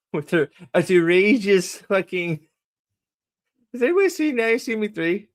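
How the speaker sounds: high, fast incredulous question; incredulous rising rant. Real, not acted. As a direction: pitch shoots up in disbelief. Mocking the actress accent.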